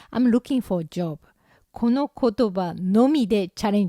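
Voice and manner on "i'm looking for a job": put-on slow, Japanese-accented English; beginner's English. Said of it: "語学力がないから、発する言葉がもうこれ一つだけなの".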